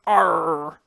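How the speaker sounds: mock pirate "arr"; hammed-up pirate noise; pirate growl. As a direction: imitate a pirate's drawn-out cry. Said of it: "you sounded like a pirate".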